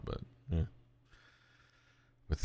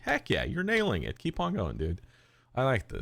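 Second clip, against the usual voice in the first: excited cheering; 6 semitones higher than usual. Retold or imitated. Cheering on the TikTok man.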